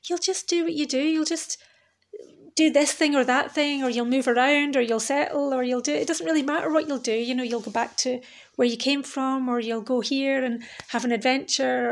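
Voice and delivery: lightly voiced friend shrugging off worries; light, easygoing friend. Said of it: "being really light about it".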